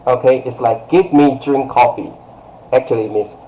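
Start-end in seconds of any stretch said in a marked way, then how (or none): 0.9-2.1 firm, blunt imperative; direct order. Shown as a demonstration. Teacher translating an order to a kid, direct. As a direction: give a straightforward command. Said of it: "quite direct".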